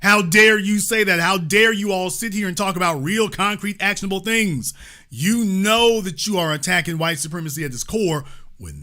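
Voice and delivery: hammed-up retelling of an angry outburst; quoting a furious man with mild heat; imitating outrage. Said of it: "He's like".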